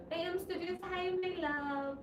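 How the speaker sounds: fond, lilting welcome; affectionate greeting. Real, not acted. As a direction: greet a loved one, stretching the words.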